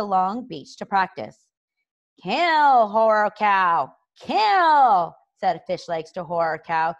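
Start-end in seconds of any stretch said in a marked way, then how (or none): 2.2-5.2 urgent command. Acted. Fish Legs urging Horror Cow to hunt, urgent loud command. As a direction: urge it on with full-voiced cries.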